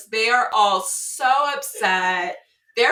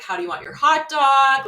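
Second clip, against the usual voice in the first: imitating caring date; 5 semitones higher, 5 dB louder than usual. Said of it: "Like, very caring".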